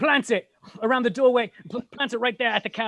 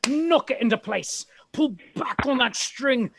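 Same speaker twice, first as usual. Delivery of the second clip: normal talking voice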